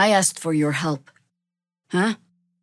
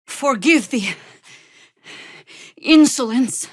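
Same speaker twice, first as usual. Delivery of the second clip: louder and higher into insolence; rising anger; 6 semitones higher, 5 dB louder than usual. Acted. Servant bristling at the master, growing loud. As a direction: build to a furious near shout.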